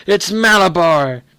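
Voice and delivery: slow, loud, eerie; powerful strange voice. A narrator's reading. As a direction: stretch it out, possessed and strange. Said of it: "he screamed in a powerful, strange voice".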